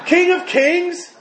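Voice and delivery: high, loud laughing disbelief; God. Acted. God mocking Xerxes' grand title, laughing incredulously. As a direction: slowly scoff it through laughter, rising at the end. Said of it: "God looked down and laughed".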